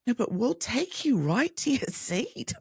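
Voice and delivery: high sing-song insistence; imitating fussy reassurance; mock solicitous helper. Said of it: "They were so worried about me".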